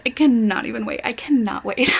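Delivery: "cannot" pushed out eagerly, then "wait" landed; bursting with excitement to read it. Real, not acted. Vlogger gushing about the book club pick, excited. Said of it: "I honestly".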